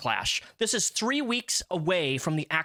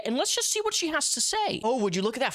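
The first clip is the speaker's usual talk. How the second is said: sarcastic reveal; 8 semitones higher than usual. Acted. Mock teasing reveal of tweet.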